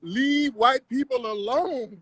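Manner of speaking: slow, drawn-out mock plea. Streamer taunting his opponent in an argument, slow mocking drawl. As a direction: stretch every word in mockery.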